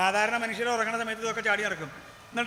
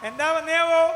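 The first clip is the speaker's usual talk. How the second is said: king calling out; 5 semitones higher, 5 dB louder than usual. Acted. King questions the minister.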